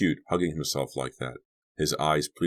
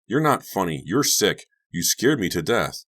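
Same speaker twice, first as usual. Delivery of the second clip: angry; 4 semitones higher, 4 dB louder than usual. Acted. Angry girl scolding prankster.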